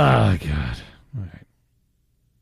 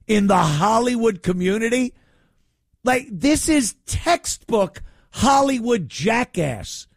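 higher, disbelieving rant; pitched-up exasperated rant; incredulous rant; 5 semitones higher than usual. Real, not acted. Ranting about Hollywood praise.

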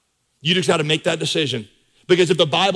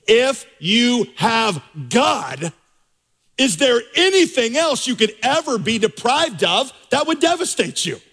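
rising preacher's appeal, pitch climbing much higher; impassioned question; 6 semitones higher, slower than usual. Acted. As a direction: build the question up to a high peak. Preacher presses key question.

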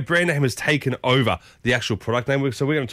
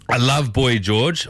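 reading a text out; much slower than usual. Shown as a demonstration. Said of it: "What's this one say?".

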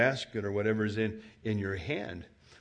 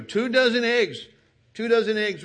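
higher and louder, pressing each word; insistent; 9 semitones higher, 6 dB louder than usual. Acted. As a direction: hammer the point home. Insisting on the receipt.

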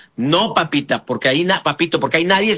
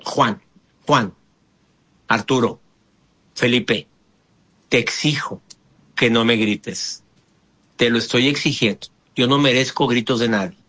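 a calm, serious demo of insisting; firm demand; 6 semitones lower than usual. Shown as a demonstration. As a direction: demand respect without raising the voice. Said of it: "Vamos con el tercer paso".

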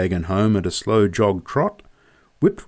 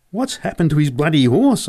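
higher, raised voice, alarmed; yelled question; 6 semitones higher than usual. A narrator's reading. Boy yelling at Joe as the rider gallops past, alarmed. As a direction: shout the question across to your mate. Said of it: "I yelled at Joe".

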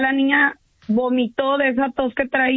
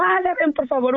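Ale jumps much higher, a pleading mock yell; imitating a frantic call for help, pitched up; retold yell; 5 semitones higher than usual. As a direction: cry out Ale high, then let por favor sink.

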